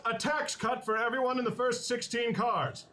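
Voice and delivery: high, booming proclamation. Acted. Player announces tax cuts to train passengers, booming voice. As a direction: boom it out like an orator. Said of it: "in my booming voice".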